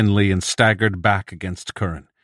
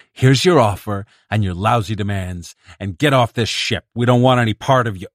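angry; 3 semitones higher, 4 dB louder than usual. Acted. Bedzik slams briefcase, throws him out.

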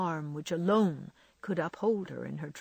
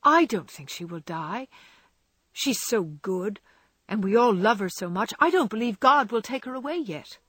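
hopeful; 4 semitones higher, 5 dB louder than usual. Acted. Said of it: "he said hopefully".

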